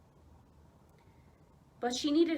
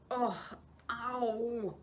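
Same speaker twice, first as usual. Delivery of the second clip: muttered ugh; 2 semitones higher than usual. Acted. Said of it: "he muttered".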